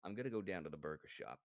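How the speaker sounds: low, quick put-on American accent; attempted American accent. Shown as a demonstration. Streamer trying it for the watching friends, attempted American accent. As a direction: have a reluctant go at an American accent. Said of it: "trying to attempt my American accent".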